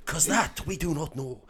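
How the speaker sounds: portentous Scots, breaking into giggles; Oliver Wood. Acted. Keeper teaching Harry the Snitch, giggly Scottish accent. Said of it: "for me to do a Scottish accent".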